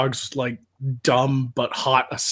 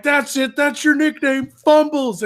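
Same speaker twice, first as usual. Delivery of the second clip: higher, mocking gang chant; teasing cartoon soldiers, pitched up; mocking teammates; 10 semitones higher, 5 dB louder than usual. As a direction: tease him as the whole squad. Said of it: "they're all like".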